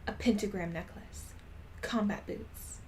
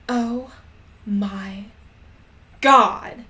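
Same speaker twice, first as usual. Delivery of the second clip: screamed; 12 dB louder, much slower than usual. Acted. Raven hearing about the concert, loud delighted scream. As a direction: shriek it out with joy. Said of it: "I screamed".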